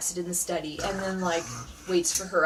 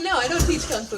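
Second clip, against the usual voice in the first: firm refusal; 6 semitones higher, 7 dB louder than usual. Retold or imitated. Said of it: "She's like".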